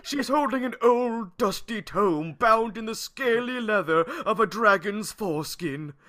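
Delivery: put-on old wizard. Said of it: "I have to read it in a wizard voice".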